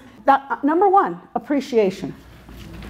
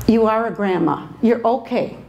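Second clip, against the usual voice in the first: low, calm reassurance; reassuring; 5 semitones lower than usual. Retold or imitated. Assistant Nancy calming the speaker, low and calm. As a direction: soothe her gently. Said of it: "she looks up at me and says".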